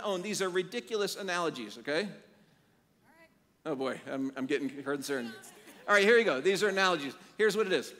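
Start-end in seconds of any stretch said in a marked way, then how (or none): 5.9-7.9 rallying call. Real, not acted. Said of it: "pumps up the room".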